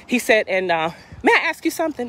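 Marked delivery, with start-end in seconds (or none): 1.2-2.1 imitating officer. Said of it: "That's what he said".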